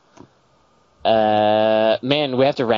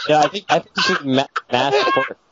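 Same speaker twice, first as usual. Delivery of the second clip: high silly voice; 4 semitones higher, faster than usual. Pretend. Silly voices over a game title.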